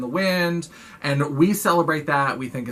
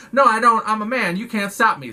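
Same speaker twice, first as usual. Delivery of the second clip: higher and louder, righteous outburst; indignant shout; 7 semitones higher, 4 dB louder than usual. Retold or imitated. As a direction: bellow it like an outraged cop. Cop shouts at teacher.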